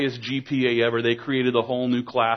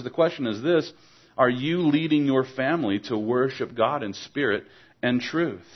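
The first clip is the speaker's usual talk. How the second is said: ordinary talk, nothing marked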